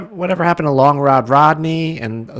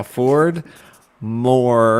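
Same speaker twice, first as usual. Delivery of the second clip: writing it down; 4 dB louder than usual. Pretend. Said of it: "I have to write that down".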